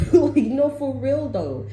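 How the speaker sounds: high and loud, laughing it off; excited insistence. Real, not acted. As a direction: push it up high, amused and worked up.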